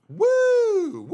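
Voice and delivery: put-on high, loud woo-girl shriek; mock woo girl squeal. Imitating girls behind us at a concert, loud high woo. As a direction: squeal it like a screaming fan. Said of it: "they were woo girls".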